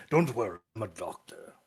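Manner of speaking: doctor reassurance. Acted. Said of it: "like, "Hmm".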